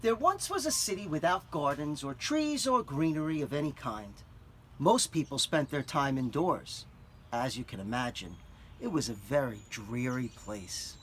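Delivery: put-on clear, expressive read-aloud for children; story narration. A narrator's reading. Teacher reads picture book aloud.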